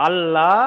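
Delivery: আল্লাহ said with full heavy lam; contrasting demo; first of two Allah. Shown as a demonstration. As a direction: give the first আল্লাহ its thick L. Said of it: "দুটো কিন্তু পার্থক্য আছে".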